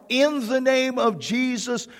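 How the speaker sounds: slow, firm rebuke of a spirit; mild mock command to the demon; understated retold command, slow; commanding cry. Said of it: "I cried out".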